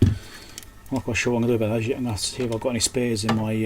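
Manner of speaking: ordinary delivery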